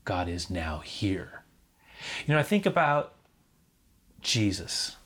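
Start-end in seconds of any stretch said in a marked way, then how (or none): 0.0-1.4 calm answer of faith. Acted. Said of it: "faith responds".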